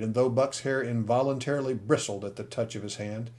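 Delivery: usual speaking voice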